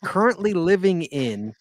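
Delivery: host's introduction, drawn out toward the end; show announcer. Acted. Host welcoming a guest from Down Under, announcer delivery. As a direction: announce the guest with slow build-up.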